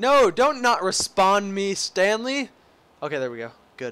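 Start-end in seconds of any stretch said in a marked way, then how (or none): 0.0-2.5 sudden, high, raised yell. Playing a game on stream, speaker yells at Stanley: yelling. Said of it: "I'm sorry for yelling".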